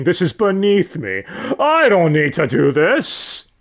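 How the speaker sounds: drawn-out, hammed-up indignation; indignant refusal. Triplets balk at planting roses for Claude, indignant. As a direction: act out an affronted refusal, stretching the words.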